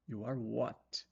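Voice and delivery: slow, puzzled follow-up; slow puzzled question. Shown as a demonstration. Teacher plays a confused listener, slowly. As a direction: drag it out as if confused. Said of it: "Tô o quê?".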